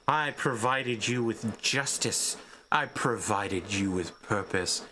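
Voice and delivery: slow, cold villain lines; a lightly voiced menacing villain. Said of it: "You hear Castalfo go".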